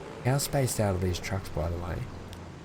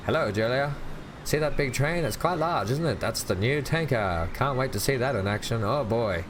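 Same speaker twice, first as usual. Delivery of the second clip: put-on higher, cheery old-time newsreel gent; 1940s voice; 4 semitones higher than usual. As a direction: chatter like a 1940s bystander. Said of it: "I slip into nineteen forties voice".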